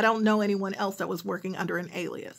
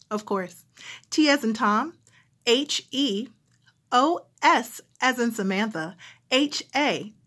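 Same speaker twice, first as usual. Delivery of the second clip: phone operator spelling. Retold or imitated. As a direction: spell it out politely for the caller. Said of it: "phone operator".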